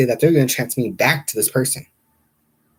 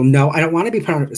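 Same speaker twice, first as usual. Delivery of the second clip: higher, louder, quick angry retort; re-enacted annoyance, raised voice; retold anger; 6 semitones higher, 7 dB louder, faster than usual. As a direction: fire back in a retold temper. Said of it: "this is where my anger came in".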